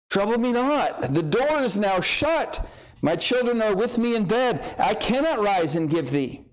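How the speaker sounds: sleepy, groggy man woken at midnight; lightly voiced groggy sleeper. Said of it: "he's kinda probably got a groggy voice".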